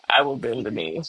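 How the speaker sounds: laughing as she gives in to her friends. Shown as a demonstration. Mock surrender, laughing. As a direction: say it through a laugh, giving in. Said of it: "I, I will bend the knee".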